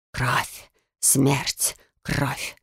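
faint voice from the dark; eerie whisper. Acted. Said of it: "Жуткий шёпот".

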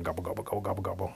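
soft, rapid turkey gobbles; turkey gobbling. Acted. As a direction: imitate a flock gobbling in passing. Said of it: "all these turkeys sitting out there".

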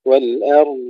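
loud والأرض with long-pressed final dad; istitala. Shown as a demonstration. Teacher corrects the error, lengthened dad in والأرض. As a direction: hold the dad of والأرض, no release bounce. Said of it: "استطالة".

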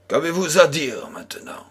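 gloating question in a whisper; hushed, smug challenge; triumphant whisper. Acted. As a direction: whisper it like you've just won the bet. Merchant triumphs over lost bet.

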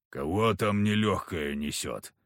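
low, slow surly grumble; low grumpy hunter mutter; grumbled. Acted. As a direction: grumble it at the door, not getting up. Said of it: "буркнул Харисим".

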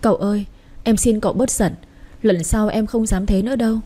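sweet, coaxing plea with the stress on xin; a lightly voiced young wife sweetly begging, leaning on xin; sweet pleading. Young wife sweetly begs her angry husband to calm down. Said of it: "giọng nói ngọt ngào của mình van xin cậu".

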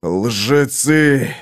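low, exhaled curse; breathed out. A narrator's reading. Conan hears false cries of his death, breathing it out. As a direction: let the insult out on a heavy breath. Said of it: "выдохнул Конан".

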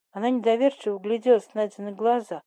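ordinary delivery, nothing marked

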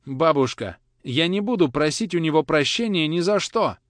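loud, high refusal near tears; boy defying his grandmother, loud and high; defiant outburst. Acted. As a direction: refuse her outright, voice rising.

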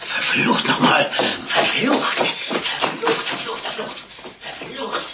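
muttered cursing. Acted. Innkeeper cursing the lad under his breath. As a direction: curse under your breath.

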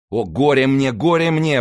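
high wail, rising on the repeat; anguished exclamation. A narrator's reading. D'Artagnan laments finding Athos in his path, anguished exclamation. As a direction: lament it out, pitched well up. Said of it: "восклицал Д'Артаньян".

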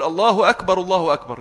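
"الله أكبر، الله أكبر" as one sentence, no break; one joined phrase. Shown as a demonstration. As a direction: flow from the first أكبر straight into الله. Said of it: "جملة واحدة".

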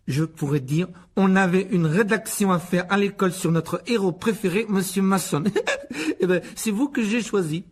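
high, loud, laboured recital with a laugh; flattering spoiled son. Acted. Son rehearsing flattery for the guest, smug and eager. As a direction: recite the compliment, pleased with yourself.

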